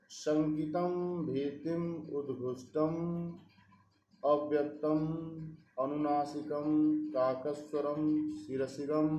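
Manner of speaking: measured, chant-like reading of the Sanskrit verse; steady Sanskrit verse recitation; shloka recitation. Acted.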